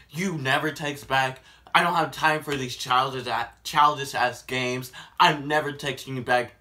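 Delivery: loud fast angry rant. Retold or imitated. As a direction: rant at him angrily. Voices angry texter.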